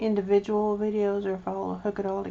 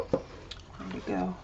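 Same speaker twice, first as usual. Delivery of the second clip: whispering; 13 semitones lower, 8 dB quieter, much slower than usual. Real, not acted. Muttering while searching for paint.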